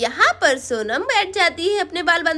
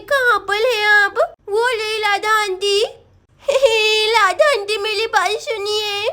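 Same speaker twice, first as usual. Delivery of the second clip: put-on crying little girl; 3 semitones higher than usual. Girl wailing to her aunt about her hair, tearful. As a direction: play a whimpering child calling for help. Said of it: "Sonam रोती हुई आ रही होती है".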